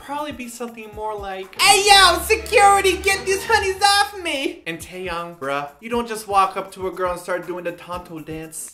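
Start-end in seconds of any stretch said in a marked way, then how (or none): 1.6-4.6 loud, high-pitched shout; mock call for security. Pestered star calling security to get honeys off, shouting in mock alarm. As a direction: holler over everyone for backup.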